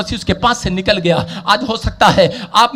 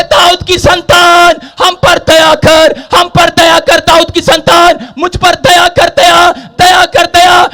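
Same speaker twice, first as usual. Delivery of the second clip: drawn-out pleading cry for mercy; preacher acting a beggar's insistent cry; crying out loudly; 10 semitones higher, 5 dB louder, slower than usual. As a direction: call out each phrase slowly, stretching the last word. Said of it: "वो जोर-जोर से चिल्ला रहे थे".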